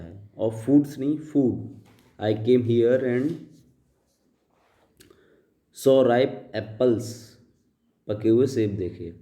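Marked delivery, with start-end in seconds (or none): 2.2-7.0 slow, deliberate read-aloud of the paragraph; slow dictation reading. Shown as a demonstration. Teacher reading the paragraph aloud to students, slow and deliberate. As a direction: read each word out slowly for the class. Reads slowly.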